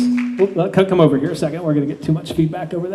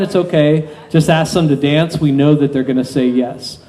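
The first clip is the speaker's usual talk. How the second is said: hypnotist induction. Acted.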